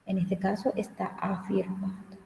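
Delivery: the same sentence again, whispered without voice. Shown as a demonstration. Teacher whispers the point again to the class. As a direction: drop to a breath, as if sharing a hint.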